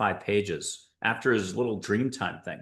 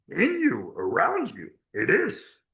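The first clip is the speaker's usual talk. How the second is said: high, slow, swooping, drawn-out sing-song character voice; 7 semitones higher than usual. Explaining love as a constant force: Yoda voice. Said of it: "I'm doing Yoda's voice again".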